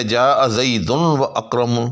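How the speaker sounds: جاء زیدن و اکرمن read slowly with a clear break after جاء; slow teacher's reading of جاء زیدن و اکرمن; careful Arabic demo of جاء زیدن و اکرمن; Arabic example. Shown as a demonstration. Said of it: "اسی طرح سے عربی میں".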